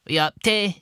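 high-pitched mock posh voice; imitation of someone speaking posh. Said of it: "Well, they're gonna speak posh".

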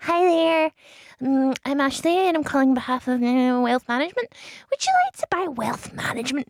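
lightly voiced childlike Glasgow voice; a touch of small-child Glasgow voice; Baby Glasgow voice. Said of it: "Baby Glasgow Voice".

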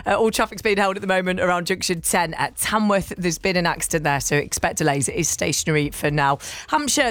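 brisk, even radio traffic bulletin; traffic news read. Acted. Reads traffic update.

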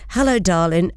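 lightly imitated Irish accent. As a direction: greet them with a hint of Irish. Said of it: "in this Irish accent".

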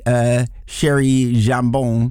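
slow mock French "Sherry Jambon"; French accent. Host to co-host, joking French accent. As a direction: say it the French way, slowly. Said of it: "he is now Teddy".

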